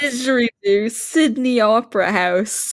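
lightly faked Australian accent; shitty Australian accent. Listing the only Australian words they know, mock Australian accent. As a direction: toss out a bad Australian accent. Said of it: "Australian accent".

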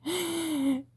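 put-on energetic Texas cowgirl accent with giggles breaking through; Texas Southern accent. Cowgirl teasing her city boyfriend at camp, giggly Texas accent. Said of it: "my horrible, offensive Texas".

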